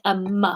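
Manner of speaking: M said as its sound, "muh"; phonics letter sound. Shown as a demonstration. Quiz host giving a first-letter hint, M sounded "muh". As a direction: say M as "muh", not "em". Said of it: "which is an M for those of you".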